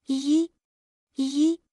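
put-on high-pitched searching call for a child. A narrator's reading. Mother looking for her daughter at home, calling out. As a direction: call out the name, pitched well up.

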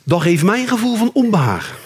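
calm therapist phrasing; mock reasonable calm; I-message. Shown as a demonstration. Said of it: "je moet zeggen".

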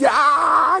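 high pained "ah"; mock pained cry. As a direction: groan as if the price hurts. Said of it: "it's gonna hurt".

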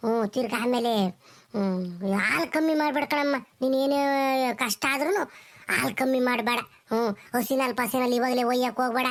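put-on an elderly granny lecturing the young mother; old granny. Grandmother advising the new mother, low old voice.

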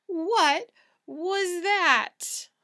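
slow, frightened whisper; scared whisper. Acted. Frightened cat whispers to friend in the dark, scared whisper. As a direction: breathe the question in fear.

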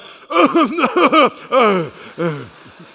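loud, high panicky gasps, hammed-up; mock panic noises. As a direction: gasp and yelp as if facing the fire. Imitates himself panicking before the fire.

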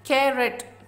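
कैरेट in two distinct beats, कै, रेट; syllable by syllable. Shown as a demonstration. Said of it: "इनको आपने pronounce करना". (कैरेट, दो अलग हिस्सों में)

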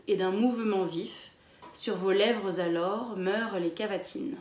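poem read to a class; poem recital. Acted. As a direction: recite the verse with care. Reads the poem aloud.

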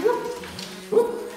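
high excited whoops. Real, not acted. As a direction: cheer the class on, high and bright. Coach cheering during drill.

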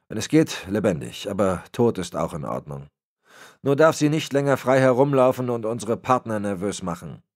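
disappointed superior laying down the law; a hint of a menacing patriarch; Berlitz, cold old boss. Berlitz gives orders.

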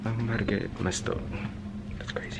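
muffled behind cloth mask; speaking with covered mouth; through a face mask. Real, not acted. Seen 0: Black face mask covers mouth and nose throughout the labelled words.

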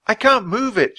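high strained croak; croaked complaint. Acted. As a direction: croak it out frustrated. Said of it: "she croaked".

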